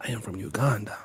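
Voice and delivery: deep, slow put-on African accent; low, slow mock African accent. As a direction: announce yourself as a prince, African accent. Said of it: "I use my little African voice".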